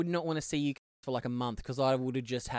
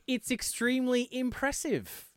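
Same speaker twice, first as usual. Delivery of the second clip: mock Irish accent; 8 semitones higher, slower than usual. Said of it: "talking about my accent".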